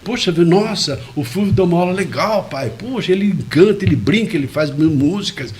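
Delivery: mild mock child enthusiasm; son's enthusiasm. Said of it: "meu filho fica encantado".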